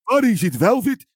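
put-on high old New York Jewish man accent. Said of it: "learning how to do a Jewish accent".

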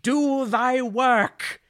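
loud, high theatrical battle cry, last words stretched; dramatic scream. Acted. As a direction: scream it like a hammy stage avenger. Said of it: "he screams as he eagle dives".

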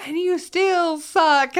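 loud, high, slow jeering chant; mock crowd taunt. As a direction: jeer like the home crowd. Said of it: "it's like".

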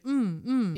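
short double hum with swooping pitch; Japanese agreeing hum. Shown as a demonstration. Showing Japanese conversation habits, agreeing hums. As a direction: hum along as an attentive listener. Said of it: "when you're conversing in Japanese".

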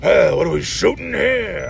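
rough shouted attempt at a famous actor; badly faked, hammed-up actor's holler; Al Pacino. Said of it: "I can't do Al Pacino".

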